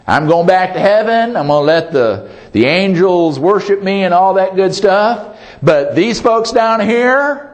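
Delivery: a hint of huffy exasperation, quitting the job; half-joking, throwing up his hands and walking out; mock fed-up self. Preacher imagining himself on the cross, mock fed up. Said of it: "about that time I'd be saying".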